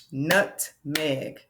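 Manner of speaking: nutmeg split as "nut, meg"; two distinct beats in nutmeg; separated syllables. Shown as a demonstration. Teacher showing two closed syllables, splitting nutmeg. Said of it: "Nut is a closed syllable".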